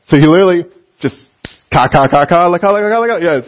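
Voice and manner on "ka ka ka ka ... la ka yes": babbling. Shown as a demonstration. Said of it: "and just babbled at him".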